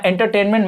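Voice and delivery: एंटरटेनमेंट in separate syllables, en-ter, tain, ment; syllable stress demo. Shown as a demonstration. Teacher showing where stress can fall, syllables separated. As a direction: set each part of एंटरटेनमेंट apart. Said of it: "जिस भी पे भी ज्यादा जोर".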